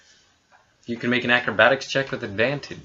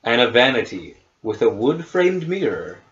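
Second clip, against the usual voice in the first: measured game master narration; scene setting. Acted. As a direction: read the room description evenly. Game master reads room description.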